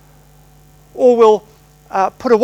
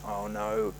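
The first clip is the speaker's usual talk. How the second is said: dismayed oh no; 14 dB quieter than usual. Retold or imitated. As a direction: sink inside as you realise you're caught. Boy watched by his own teacher.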